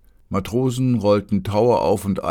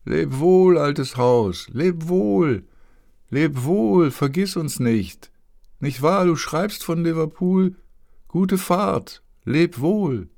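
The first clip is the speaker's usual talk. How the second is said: much higher, louder calling; calls from the shore; 11 semitones higher, 4 dB louder, slower than usual. A narrator's reading. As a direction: hail the ship from the quay. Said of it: "klangen die Rufe". (laute Abschiedsrufe vom Ufer)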